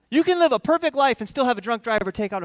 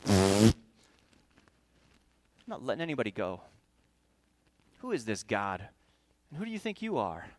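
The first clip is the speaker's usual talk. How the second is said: defiant Pharaoh; 11 semitones lower, 6 dB quieter than usual. Retold or imitated. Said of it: "And Pharaoh goes".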